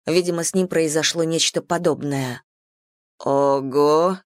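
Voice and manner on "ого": low, stunned exclamation; dumbfounded, pitched down. A narrator's reading. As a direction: let it out low, taken aback. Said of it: "ошарашенно произнёс он".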